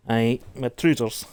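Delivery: playful mock Scottish accent on "Aye, my trousers"; a light put-on Scottish lilt; hammed-up Scottish voice. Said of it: "I stopped my Scottish accent".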